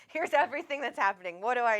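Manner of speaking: loud, high panicked rush of questions, laughing between them; frantically begging a friend for help; mock panic call to a friend; panicked plea. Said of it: "I was like".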